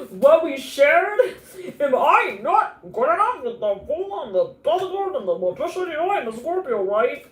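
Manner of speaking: loud, high mock indignation; high, loud wounded outburst; hurt, rejected lover. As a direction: ham up a jilted lover's protest. Acts out hurt, rejected person.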